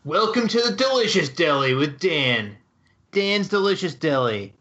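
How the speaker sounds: upbeat TV host intro; food show host. Pretend. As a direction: announce it like a cooking show host. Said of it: "take a crack at it".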